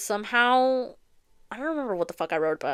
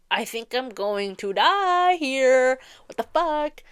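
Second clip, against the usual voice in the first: put-on dying girl; 5 semitones higher, much slower than usual. Character lying near death.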